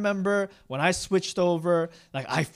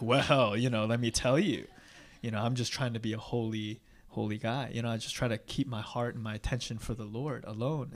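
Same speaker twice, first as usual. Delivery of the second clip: soft, lower holy-guy voice; pious humble-brag; 4 semitones lower, 3 dB quieter than usual. Retold or imitated. Speaker answering about his dumb phone, mock pious. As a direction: modestly boast of devotion. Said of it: "So I can be like".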